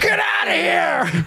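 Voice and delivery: high-pitched, drawn-out comic holler; mock New Yorker yell. New Yorker brushing off a runner in the street, mock yelling.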